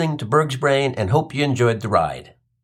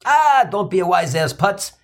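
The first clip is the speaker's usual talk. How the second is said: retorting mother; 3 semitones higher than usual. Retold or imitated. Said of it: "she retorts".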